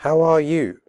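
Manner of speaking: slow with full are; careful slow question; slowly. Shown as a demonstration. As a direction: say each word clearly, slowly. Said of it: "first slowly and then quickly".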